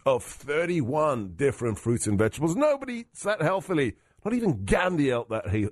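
upbeat sponsor read. Acted. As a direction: read it like a radio ad. Host reads sponsor ad.

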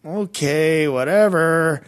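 imitating a skeptical teenager, drawn out; dismissive giggly teen. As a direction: brush it off with a stretched, mock-polite okay. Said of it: "giggled, like".

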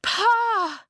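very high, loud drawn-out call; shouting out. A narrator's reading. Esker calls her father from the dome, shouting. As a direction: holler for a father far away.

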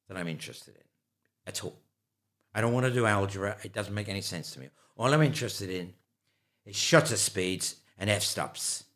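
put-on lightly Irish-accented retelling. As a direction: slip into an Irish lilt as you retell it. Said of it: "I've launched myself into an Irish accent here".

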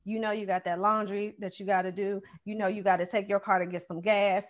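quiet mock inner voice; inner nagging voice. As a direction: play your own busy brain. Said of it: "my brain was just like".

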